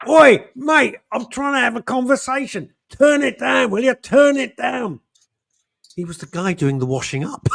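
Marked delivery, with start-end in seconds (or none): 0.1-5.0 high, loud, shouting cockney; mock yell. Rocking Dave yelling at the washing-up guy, high mock shout. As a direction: bark it at the DJ, hammed-up. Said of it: "And he goes".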